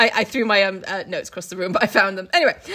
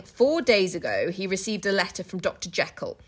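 tired reading; 3 semitones lower, 4 dB quieter than usual. Shown as a demonstration. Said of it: "someone was tired when they wrote this".

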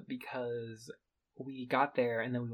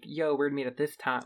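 casual yo; 5 dB louder than usual. Retold or imitated. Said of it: "disrespectful to be like".

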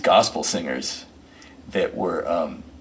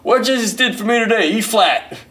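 much higher, louder breezy answer; deadpan musician; 13 semitones higher, 6 dB louder than usual. Retold or imitated. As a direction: answer easily, like it's obvious. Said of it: "Brother Driver says".

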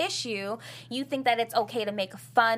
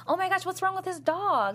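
laughing; 7 semitones higher than usual. Retold or imitated. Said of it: "my first reaction was like".

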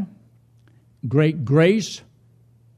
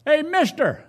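high-pitched parrot holler; high, drawn-out bird heckle; 10 semitones higher, slower than usual. Acted. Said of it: "This parrot hollered out".

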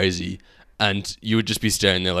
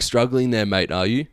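mildly sassy retold jab, slightly raised at the start; 3 semitones higher than usual. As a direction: imitate a customer's cheeky dig. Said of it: "like, a sassy tone".

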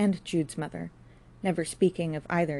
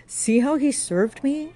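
higher, louder, slow outcry; crying out; 10 semitones higher, 7 dB louder, slower than usual. A narrator's reading. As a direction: cry out to the passers-by. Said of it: "she cried".

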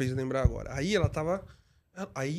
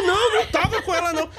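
flustered denial; 10 semitones higher, 4 dB louder than usual. Retold or imitated. Driver denies to the mother.

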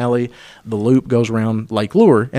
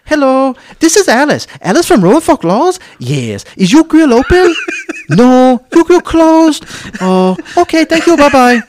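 mock broken English; 13 semitones higher, 5 dB louder than usual. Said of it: "She's like".

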